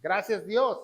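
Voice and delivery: mildly glad, heartfelt gratitude; contented thanks. Shown as a demonstration. Preacher shows thanks from the heart, contented demo. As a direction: give thanks as if you mean it. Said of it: "tengo que estar yo contento".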